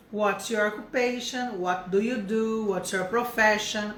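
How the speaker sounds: slow, careful model questions; paced classroom examples; slow teaching model. Shown as a demonstration. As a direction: drill each question slowly. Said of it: "O mais comum é isso aqui".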